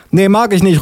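high-pitched refusal; high put-on policewoman voice; disapproving policewoman. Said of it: "ruft die Polizistin".

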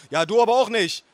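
high-pitched retort; yelling back. Acted. Nephew in shouting match with aunt, yelling. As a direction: fire it back at full voice.

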